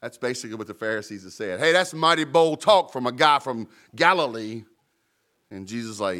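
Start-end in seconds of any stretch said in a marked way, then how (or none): 1.6-4.6 louder, sneering challenge; mocking taunt. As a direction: throw the taunt at him. Pharisees taunt Jesus.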